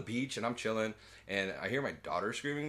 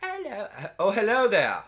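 much higher and louder, squeaky dinosaur; tiny creature voice; 11 semitones higher, 9 dB louder than usual. Pretend. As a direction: chirp a bright hello like a critter. Compy voiced high.

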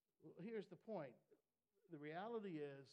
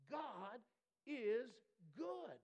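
loud, much higher, each word hammered apart; proclaimed shout; 7 semitones higher, 8 dB louder, much slower than usual. Acted. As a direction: cry it out like a victory. Preacher's climactic proclamation.

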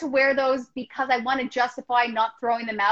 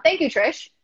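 kind gentle laugh; 3 semitones higher than usual. Real, not acted. Laughing at a chat comment.

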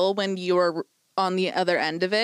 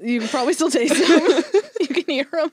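laughing while talking; 7 semitones higher, 5 dB louder, faster than usual. Real, not acted. Laughing listing the senses.

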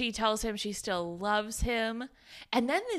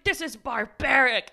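loud, indignant imitation; mock indignation; 3 semitones higher, 6 dB louder than usual. Friend berating the hospital staff, mock indignation. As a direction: declare it loudly, playing appalled.

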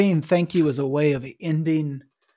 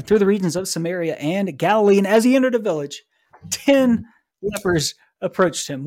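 lifted, emphatic storytelling read; animated scripture reading; 5 semitones higher, 4 dB louder than usual. A narrator's reading. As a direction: read the gospel like a lively tale. Reads the gospel aloud, animated.

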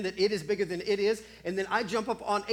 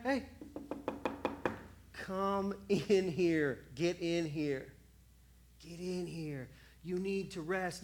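gentle shepherd calling; 3 dB quieter, slower than usual. Acted. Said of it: "the shepherd's over there".

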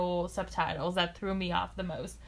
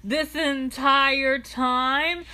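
mock incredulous; 4 semitones higher, 5 dB louder, much slower than usual. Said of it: "and it's like".

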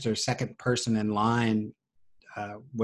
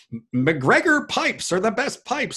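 much higher, slow, showy salesman voice; hammed-up trade show spokesman hawking pipes; pipe company promo pitch; 12 semitones higher, 3 dB louder than usual. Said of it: "be like".

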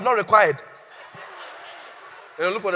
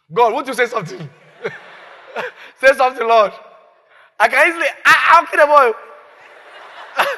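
louder, desperate pleading to God; urgent plea; 4 semitones higher, 8 dB louder than usual. Acted. Abraham pleading with God before killing his son. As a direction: beg God to speak, half joking.

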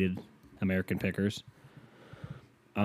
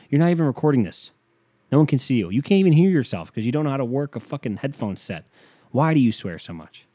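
higher, louder fed-up nagging; exasperated scolding; 4 semitones higher, 4 dB louder than usual. Acted. Mocking himself for bumping the mic, exasperated nagging. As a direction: lay into him like an annoyed cohost.

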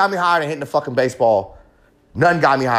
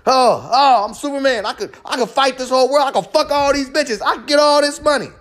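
high, puffed-up boastful voice; mock high bragger; 9 semitones higher than usual. Mocking an addict's high boasts of being Superman. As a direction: brag like a cocky high man. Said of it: "as if it's gonna make you better".

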